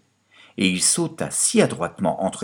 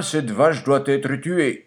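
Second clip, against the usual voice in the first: drawn-out, higher-pitched master's verdict; master's order; 6 semitones higher, slower than usual. A narrator's reading. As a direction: declare it slowly as the master. Master orders the cow killed.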